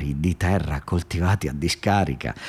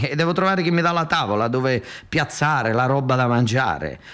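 phone deal voices; 3 semitones higher than usual. Acted. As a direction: play both sides of the call. Acted phone dialogue continues.

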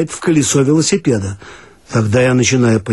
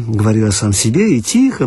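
plain reading voice

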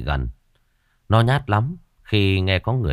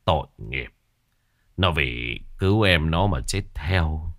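tearful grief; 4 semitones lower than usual. A narrator's reading. Captain telling villagers how the brothers died, tearful. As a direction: speak through held-back tears. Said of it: "ông Tiến rưng rưng nước mắt".

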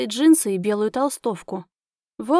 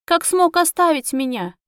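tearful; 6 semitones higher, 3 dB louder than usual. A narrator's reading. Heroine weeping over abandonment.

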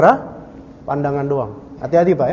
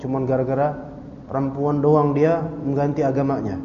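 imitated sad lament; 3 semitones lower, 3 dB quieter than usual. Friends lamenting a man who changed religion, mildly sad. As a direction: act out mild sorrow, keeping it low. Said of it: "ya, sedihlah teman-temannya lah".

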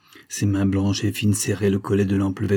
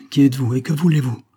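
louder, higher sharp challenge; through clenched teeth; 5 semitones higher, 5 dB louder, faster than usual. A narrator's reading. Major confronts a silent stranger at night, through his teeth. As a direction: demand it between clenched teeth. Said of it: "demanda le major entre ses dents".

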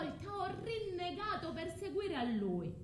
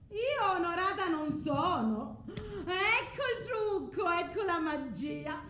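defiant outburst; 5 semitones higher, 4 dB louder than usual. Acted. Medea defiantly confronts Egeo.

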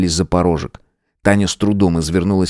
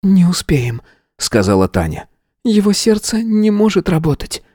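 higher, detached voice; cold witch; 11 semitones higher than usual. A narrator's reading. Tanya coldly says they won't make it. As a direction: speak coldly.

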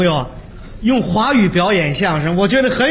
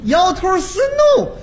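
clumsy English words; 9 semitones higher, slower than usual. Acted. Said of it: "说，说两句 英语".

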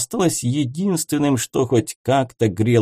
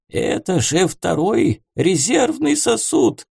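higher, startled cry; alarmed homunculus; 8 semitones higher than usual. A narrator's reading. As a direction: gasp in alarm.

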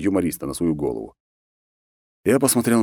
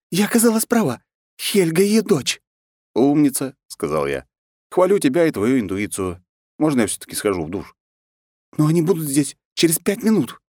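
put-on much higher, agitated girl's voice; nervous young woman; 5 semitones higher than usual. Anna frets to Alexander about the guests, high agitated voice. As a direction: voice Anna fretting and flustered. Anna's voice.

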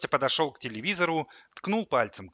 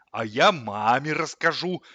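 slow, louder, cold counter-threat; 3 semitones higher, 7 dB louder than usual. A narrator's reading. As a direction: state it icily, taking your time. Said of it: "холодно заявил холодильник". (холодно и медленно)

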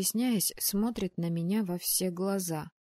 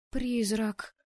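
startled squeak; 3 semitones higher than usual. Acted. Anna squeaks on seeing the ghost. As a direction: squeak it like a choked mouse. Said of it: "пискнула я, словно придушенная мышь".

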